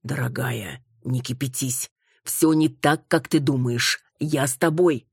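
soothing husband. Acted. Husband soothes angry wife.

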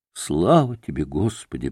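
low, hushed thanks to God; fervent, heartfelt. A narrator's reading. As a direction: give thanks with quiet, understated fervour. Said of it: "проговорила она горячим, проникновенным голосом".

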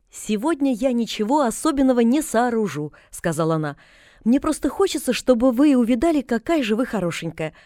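a hint of a bright chattering girl; Pollyanna's voice. Pollyanna chatters while combing.

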